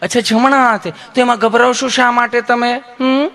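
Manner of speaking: sweet, put-on nurse voice; loving nurse. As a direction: gently reassure the patient, tagging on "hm?". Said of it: "તમે કેટલું પ્રેમથી પૂછો છો".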